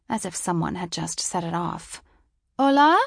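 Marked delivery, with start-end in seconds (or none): 2.6-3.0 calling out. A narrator's reading. I heard someone say from behind.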